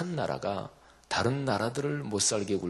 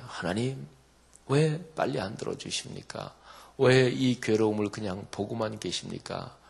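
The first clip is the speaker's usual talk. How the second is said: impatient nagging prayer; 3 semitones higher than usual. Retold or imitated. Preacher mimics a believer nagging God, pleading. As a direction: hurry God along like a fretting child. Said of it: "막 안달을 하면서 하나님을 채근하는 거죠".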